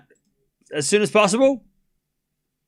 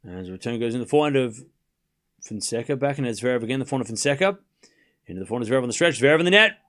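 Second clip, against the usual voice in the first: play-by-play; 4 semitones lower, 3 dB quieter, faster than usual. Real, not acted. Live tennis play-by-play.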